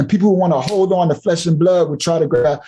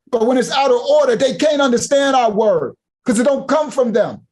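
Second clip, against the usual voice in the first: preaching shout; 5 semitones higher than usual. Real, not acted.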